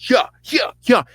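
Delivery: high, short mock martial-arts yelps; karate cries. Storyteller as Saul kicking soldiers, mock karate cries. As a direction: yelp with each imagined kick.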